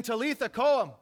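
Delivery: loud, emphatic call to rise; exclaimed. Retold or imitated. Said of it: "Notice the exclamation point at the end".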